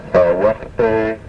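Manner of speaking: Nachtaka with a German Ach-like throat H; guttural H. Shown as a demonstration. Teacher demonstrating the guttural H, like German Ach. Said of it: "as in the German word Ach".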